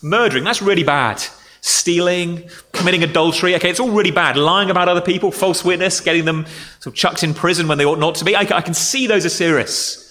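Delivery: mildly agreeable inner voice nodding along; a hint of a sensible churchgoer; imagined reader's thought. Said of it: "you might well think".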